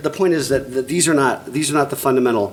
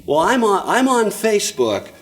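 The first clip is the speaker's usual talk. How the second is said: higher, defensive mock parent voice; 4 semitones higher than usual. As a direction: whine it like an excuse. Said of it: "what's the insinuation".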